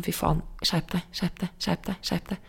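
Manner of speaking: quiet inner telling-off that trails off; self-scolding. Retold or imitated. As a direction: scold yourself under your breath until it dies away. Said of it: "da begynner jeg å kjefte som".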